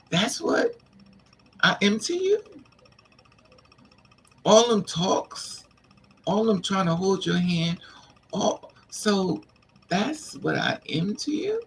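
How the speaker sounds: high, slow wounded questioning; high hurt rising questions; hurt disbelief. Retold or imitated. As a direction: let the betrayal crack through. Hurt by friend's slur.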